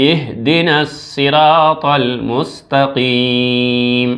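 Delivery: slow, drawn-out recitation; slow melodic tilawat. Shown as a demonstration. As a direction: chant the verse slowly. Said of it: "আবার আমি পড়ি, আপনি শুনেন".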